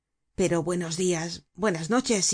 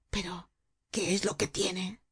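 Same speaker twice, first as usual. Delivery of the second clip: a soft muttered question to himself; softly muttered, almost to himself; muttering under breath; 7 dB quieter than usual. A narrator's reading. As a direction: mutter it between the teeth. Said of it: "murmurando entre dientes".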